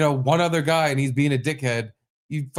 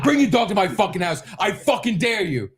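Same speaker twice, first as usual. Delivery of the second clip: high-pitched, heated dare; retold yell, daring him on; screaming match; 8 semitones higher than usual. Dad daring neighbor to bring his dog, retold yelling. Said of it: "we're having a screaming match".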